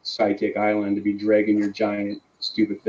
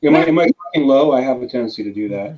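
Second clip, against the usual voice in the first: big hall echo. Real, not acted. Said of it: "sounds like you're broadcasting in a hall".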